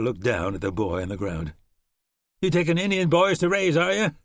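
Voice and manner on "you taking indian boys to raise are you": higher, louder volunteer mocking; a hint of a scornful rider; mild sneer. Volunteer mocking Shannon about the boy, sneering.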